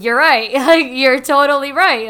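loud, laughing surrender; mock surrender. Student conceding to her mentor on the call, loudly surrendering. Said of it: "like, surrender".

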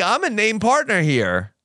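Harvey blowing up. Retold or imitated. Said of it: "I kinda expected Harvey to be like".

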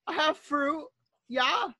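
exaggerated cartoon intonation. Acting fruit-selling natives.

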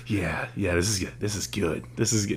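softly to oneself, imitating a poster; mock self-approval. Host imitating posters rewatching their crying video, mock approving.

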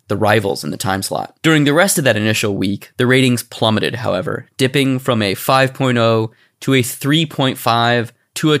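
measured documentary-style reading; read-aloud narration. Real, not acted. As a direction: read the history out evenly, phrase by phrase. Reads out the show's history.

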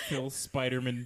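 Spiderman as "SPY-der-mun"; surname pronunciation. Shown as a demonstration. The speaker repeats his joke, Spiderman ending in unstressed "mun".

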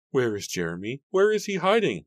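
distraught high-pitched questioning; crying out. A narrator's reading. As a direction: cry out, increasingly desperate. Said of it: "Mary cried".

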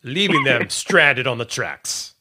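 slow, loud dramatic storybook narration; audiobook narrator. Pretend. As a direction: read it like an audiobook. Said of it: "they should hire you for that".

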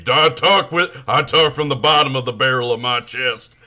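imitating a forceful TV host; chesty show host. Podcaster impersonating the show's host, chest-voice impression. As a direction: push it out from the chest. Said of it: "they got the host who's like".

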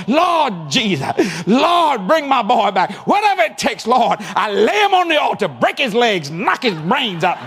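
hammed-up desperate prayer; mock stupid prayer. Parent praying a stupid Pentecostal prayer, hammed-up pleading. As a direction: pray it like a frantic parent at the altar. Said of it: "here's one of them".

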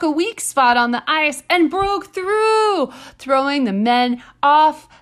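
slow, theatrical newspaper read with a laugh in it; old-timey newspaper accent. Pretend. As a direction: announce it like an old-timey town crier. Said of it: "your finest old-timey newspaper accent".

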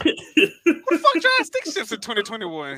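mock outrage that anyone drives stick; laughing at a question about a stick shift; incredulous laughing disbelief.

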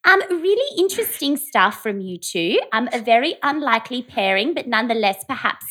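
polite phone reporter voice; lightly put-on tabloid reporter. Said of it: "work on her reporter voice".

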